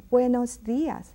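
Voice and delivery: "Buenos días" said with a singing lilt; tuneful teacher's model of "Buenos días"; melodic. Shown as a demonstration. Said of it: "It sounds so melodic when you say".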